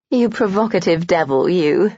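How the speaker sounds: playful mock scolding; lightly voiced flirtatious jab; teasing. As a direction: tease him affectionately. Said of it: "Amelia teased".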